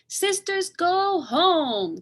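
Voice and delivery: put-on high, loud babyish command; tiny sister calling everyone home; baby cry. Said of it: "cried baby seventh sister".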